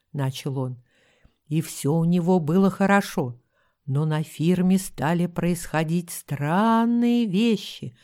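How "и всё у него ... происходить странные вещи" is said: ominous voice. Acted. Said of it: "произнёс он зловещим голосом".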